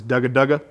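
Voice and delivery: dugga dugga at the call's front; dugga feed call, front of call. Shown as a demonstration. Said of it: "this is how they sound in the front of the call".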